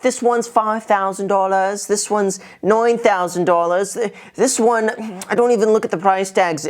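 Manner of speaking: badly faked British rich kid accent; mock British accent, showing off the closet; terrible British accent. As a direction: attempt a posh British accent and miss. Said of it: "it's a terrible accent".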